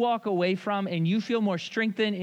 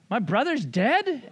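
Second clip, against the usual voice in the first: put-on shocked child; 6 semitones higher, 3 dB louder, slower than usual. Child shocked at family story.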